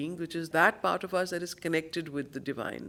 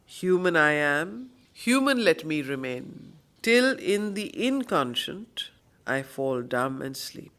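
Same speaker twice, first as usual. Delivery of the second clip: slow, weighty verse reading; poem recitation. Acted. Teacher quoting the poem's lines, slow solemn recitation. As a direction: lean into each line like scripture. Reads Savitri poem aloud.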